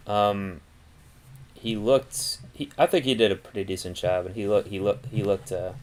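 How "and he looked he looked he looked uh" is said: stumbling over repeated words; stuck on the same words; stuttering. Real, not acted. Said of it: "jeez, I'm stuttering".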